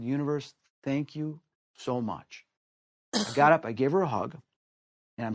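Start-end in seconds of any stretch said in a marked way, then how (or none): 0.0-2.4 quiet gratitude. Retold or imitated. Grateful prayer to the universe.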